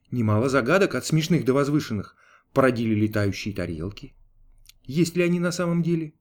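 usual speaking voice

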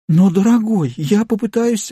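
high, timid plea; pleading. A narrator's reading. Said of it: "взмолилась миссис Корнер". (испуганная мольба, голос выше)

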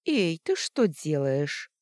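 возмущённый окрик, медленно; резко одёрни подругу; возмущённо. Acted. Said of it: "возмутилась Оксана". (возмущённо и медленно)

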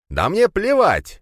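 slow, high-pitched scornful yell; angry cry. A narrator's reading. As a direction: cry it out high, stretching the words. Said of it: "вскрикнул граф".

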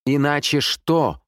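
high, drawn-out challenge; shouting. A narrator's reading. Amanda challenges the sergeant on the phone, shouting. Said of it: "крикнула она в телефон".

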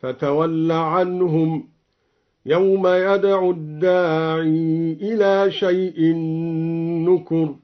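الداعي with its final ya kept in connected reading; slow recitation keeping the ya of الداعي. Shown as a demonstration. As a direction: read الداعي with a long final i. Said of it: "أثبت الياء في الداعي وصلا هكذا".

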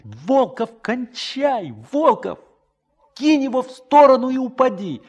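pleading shout. Acted. Boy begs friend to drop shell.

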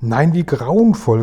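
high, loud and slow horrified exclamation; the queen, aghast, cries out slowly; horrified cry. A narrator's reading. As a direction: cry out in horror at the news. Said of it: "rief die königliche Stimme".

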